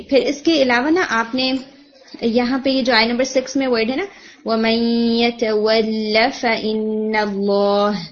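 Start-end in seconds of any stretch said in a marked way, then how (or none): 4.4-8.0 slow recitation of وَمَن يَتَوَلَّ فَإِنَّ اللَّهَ with the lam held short; recited phrase. Shown as a demonstration. Teacher models the verse for the student, slow recitation. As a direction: chant it with اللَّهَ lam at one count. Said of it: "یہ لام آپ کا تھوڑا سا stretch ہو گیا تھا".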